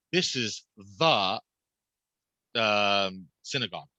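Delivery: "the" stressed and drawn out, slow. Shown as a demonstration. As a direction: lean on the word "the" to make the point. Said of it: "you can emphasize any word you want".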